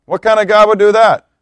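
loud, high indignant demand; grandma's outburst again. Retold or imitated. Preacher voicing grandma's angry question to God, loud and high. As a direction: hurl the question like a wronged grandma. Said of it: "In the words of my grandma".

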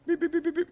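high, mechanical beeps; meter beeping. Retold or imitated. Preacher imitating the beeping of a commitment meter. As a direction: beep like a little gauge going off.

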